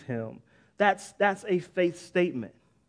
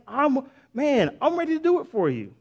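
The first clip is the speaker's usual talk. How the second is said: God speaking; 5 semitones higher than usual. Retold or imitated. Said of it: "He's saying".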